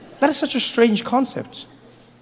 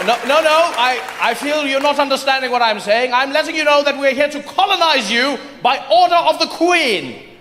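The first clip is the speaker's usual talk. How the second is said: pompous insistence; 5 semitones higher than usual. Acted. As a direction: insist like an offended colonial. British officer insists.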